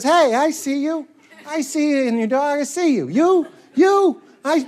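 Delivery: neighborly greeting to a passerby, sliding into De Niro. Acted. Slight movie tough-guy impression. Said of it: "why is it De Niro?".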